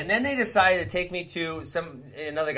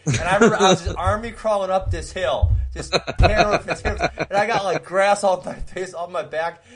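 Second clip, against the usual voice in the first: higher voice with laughs breaking through; laughing storytelling; 4 semitones higher than usual. Real, not acted. Storyteller pictures himself crawling uphill, real laughter in the words. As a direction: giggle helplessly through the telling.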